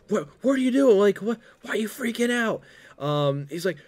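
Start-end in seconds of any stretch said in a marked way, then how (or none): 0.1-2.6 high, puzzled mock voice; lightly voiced confused friends; gang asking. The gang asking the cameraman why he panics, mock high. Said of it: "the rest of the gang's like".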